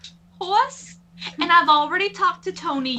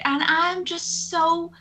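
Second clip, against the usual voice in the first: put-on Southern accent. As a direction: slip into a Southern accent mid-sentence. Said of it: "I don't know why I'm Southern all of a sudden".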